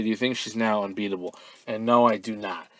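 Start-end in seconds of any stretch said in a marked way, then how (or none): 0.0-1.3 quick, smooth "she's now unbeatable"; fluent corrected read. Shown as a demonstration. Host restating what the fan meant, quick and fluent. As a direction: rattle off the fixed question quickly. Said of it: "I'm assuming she meant to say".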